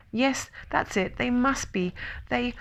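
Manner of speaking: high, faltering small creature; nervous, squeaky hedging; flustered excuse. A narrator's reading. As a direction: stumble through an excuse to get away. Piglet flustered, making excuses.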